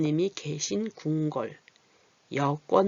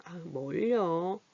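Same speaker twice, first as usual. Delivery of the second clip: modest deflection; 4 dB quieter, much slower than usual. Shown as a demonstration. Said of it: "이렇게 말할 때".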